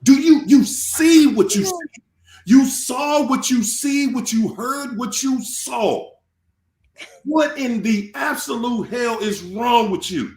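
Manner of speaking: imagined angry scolding. Retold or imitated. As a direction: shake him awake with fury. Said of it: "yanked me up and said".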